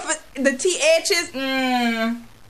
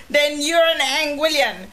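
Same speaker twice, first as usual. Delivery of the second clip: ordinary talk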